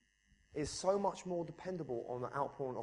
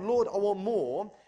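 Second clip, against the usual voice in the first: crying out; 4 semitones higher, 7 dB louder, slower than usual. Retold or imitated. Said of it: "the more I cry out to God".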